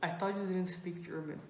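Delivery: softly imitating a friend's confidential aside; retold whisper. Friend sidling up to question the German, mock whisper. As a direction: keep it hushed, as if only one person should hear. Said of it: "she comes up to me to whisper".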